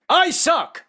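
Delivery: high shrieked vampire cry; a squealing cartoon vampire; DeSantis vampire. DeSantis as a vampire, shrieking high. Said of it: "My impression of Governor DeSantis as a vampire".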